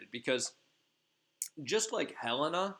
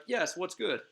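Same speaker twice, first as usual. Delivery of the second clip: eager fairy servants; 7 semitones higher than usual. Retold or imitated. Fairy servants answering their queen in high chirpy voices. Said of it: "and they're like".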